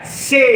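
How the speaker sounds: से with the ay held; long ay sound. Shown as a demonstration. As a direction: model से for learners, stretching the vowel. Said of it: "ए असा केलेला आहे". (से मधला ए लांबवून)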